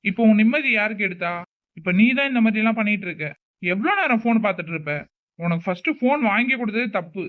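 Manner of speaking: put-on older brother yelling at his sister over her phone use; angry yelling.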